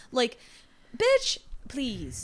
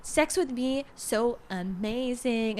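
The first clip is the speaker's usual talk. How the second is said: slow breathy sultry mock; 4 dB louder, slower than usual. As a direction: drawl it out, seductive and slow. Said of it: "singing in her sultry voice".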